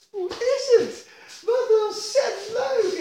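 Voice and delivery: very high, gushing greeting; high, sugary hello. Retold or imitated. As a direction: gush at someone you dislike. Imitating own overjoyed greeting.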